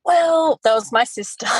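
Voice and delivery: gleeful high exclamation; laughing outburst. Real, not acted. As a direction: shout it out, caught out and laughing. Outing her sister, laughing.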